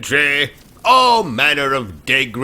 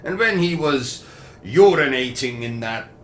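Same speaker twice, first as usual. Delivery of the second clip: put-on posh British accent telling a crude tale; a pompous host chatting to Bertram.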